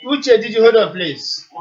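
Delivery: loud, insistent cut-in; firm interruption. Real, not acted. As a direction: raise your voice to stop him. Host cutting off caller.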